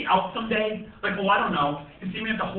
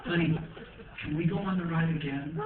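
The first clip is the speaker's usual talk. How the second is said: put-on soft girlish ask; 6 semitones lower, 6 dB quieter than usual. Girlfriend to boyfriend, a soft coaxing plea. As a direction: lower and softer, coaxing. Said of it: "and she's like".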